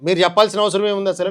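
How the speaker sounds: retelling how he shouted the pastor off; retold angry retort. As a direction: snap back at the pastor as you did then. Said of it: "అని గట్టిగా మాట్లాడా".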